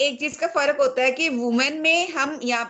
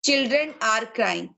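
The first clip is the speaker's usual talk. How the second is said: slow model sentence; 2 semitones lower, much slower than usual. Shown as a demonstration. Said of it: "child is crying".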